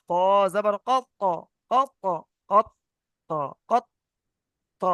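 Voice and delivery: "কত" stopped, then the final consonant released apart; bouncing end on "কত"; qalqalah release. Shown as a demonstration. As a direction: hold the stop in "কত", then let "ত" go. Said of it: "এই ত বলে যে ছেড়ে দিচ্ছি".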